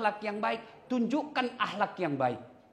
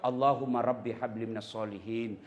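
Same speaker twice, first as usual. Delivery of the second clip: tender prayer; 8 semitones lower than usual. Shown as a demonstration. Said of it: "Kita suap".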